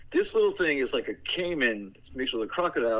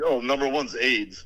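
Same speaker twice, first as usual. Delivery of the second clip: mocking list reader; 2 semitones lower than usual. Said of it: "that's like me going".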